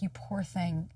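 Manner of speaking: put-on soft, sympathetic cooing to a child; compassionate. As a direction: comfort gently, with pity. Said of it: "I turned to her because compassion".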